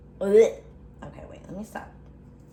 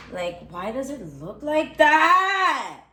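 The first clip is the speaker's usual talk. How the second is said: frustrated cry out; 3 semitones higher, 4 dB louder, slower than usual. Real, not acted. Frustrated at mushy banana.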